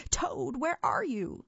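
calling out. A narrator's reading. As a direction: call out for a hidden friend. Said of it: "called Frog".

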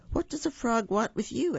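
high, puzzled question; lightly voiced puzzled king. King puzzled about the frog at the door, high puzzled question. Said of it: "asked the puzzled king".

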